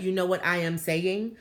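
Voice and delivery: careful, uncontracted English with a foreign accent; accented proper English. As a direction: imitate a formal foreign-accented speaker. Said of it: "he was talking like that".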